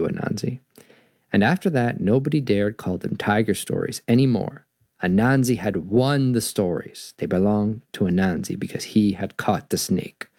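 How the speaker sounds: calmer storybook narration; story reading. A narrator's reading. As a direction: close the tale gently.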